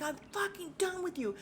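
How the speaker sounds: high-pitched mock outrage; imitating pissed-off friend. Jacqueline standing up to end the friendship, mock pissed. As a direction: squeal it like a fed-up reality star. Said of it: "Jacqueline is pissed and she's standing up".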